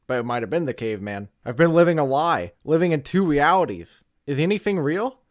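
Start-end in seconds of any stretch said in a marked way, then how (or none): 1.4-5.2 existential spiral. Acted. Existential rant building.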